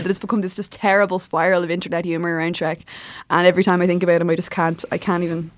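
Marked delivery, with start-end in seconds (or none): 0.0-2.8 muffled behind a hand; words blocked by a palm; hand over mouth. Real, not acted. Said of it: "I'm talking into my hand".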